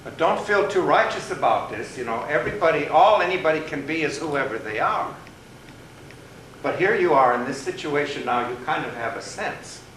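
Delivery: a hint of a pronouncing rabbit judge; lightly voiced sage rabbit. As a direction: declaim it as the wise storybook rabbit.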